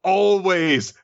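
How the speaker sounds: Ren. Acted. Ren confesses to Ruru, high and boldly dramatic. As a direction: build up word by word with bold pauses. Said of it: "brimming with confidence".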